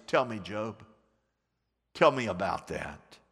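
low, hushed challenge; God challenging Job. Acted. God questioning Job in a low, hushed voice. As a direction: press Job quietly for an answer.

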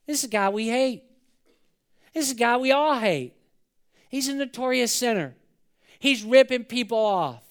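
mildly acted indignant crowd; a touch of outraged grumbling; angry, displeased. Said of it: "They're angry. They're displeased".

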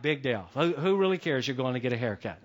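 low, understated "who cares" brush-off; imitating an unbothered, mildly dismissive uncle. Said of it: "my uncle's response was".

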